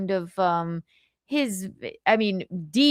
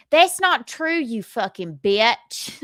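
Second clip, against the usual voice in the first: mock shrill insult; 3 semitones higher, slower than usual. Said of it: "Any other impressions?".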